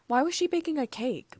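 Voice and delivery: genuinely baffled; surprised. A narrator's reading. Paul in the pack mind, surprised. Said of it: "Paul's voice asked, surprised".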